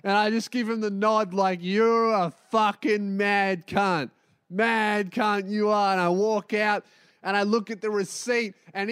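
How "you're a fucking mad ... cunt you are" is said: slow admiring compliment. Retold or imitated. Nodding approval to the guy.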